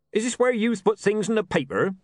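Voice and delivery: a chuckling local with a joke; cheeky small man. A narrator's reading.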